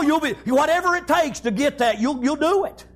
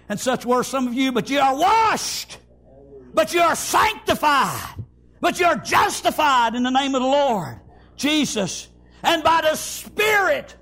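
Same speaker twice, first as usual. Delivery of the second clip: preached scripture. Acted. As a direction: proclaim each line of the verse. Reading scripture in preaching cadence.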